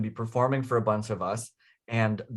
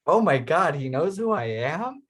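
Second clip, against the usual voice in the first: higher and louder, starry-eyed disbelief; thrilled exclaim, higher and louder; retold amazed gasp; 6 semitones higher, 3 dB louder than usual. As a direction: relive the moment a hero knew your name. Retelling meeting his hero.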